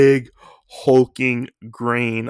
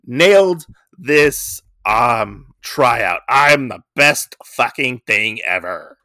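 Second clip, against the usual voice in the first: bragging; 2 semitones higher, 4 dB louder, slower than usual. Retold or imitated. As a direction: crow about nailing it. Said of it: "Rex is like".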